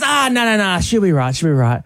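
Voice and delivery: lightly voiced breezy Aussie brush-off; mildly acted dismissive Aussie reassurance; insistent Aussie bloke. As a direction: imitate an insistent Aussie waving off concern. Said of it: "he was very insistent, very Aussie".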